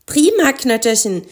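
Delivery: high, pleased cry; delighted exclamation. A narrator's reading. Mathilda praising Knötterchen's successful spell, delighted exclamation. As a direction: cheer your friend on. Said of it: "rief Mathilda".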